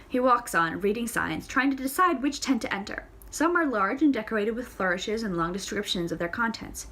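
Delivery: ordinary delivery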